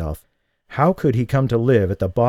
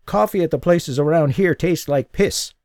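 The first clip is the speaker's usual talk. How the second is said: put-on old man; 7 semitones higher than usual. Old man voiced in dialogue.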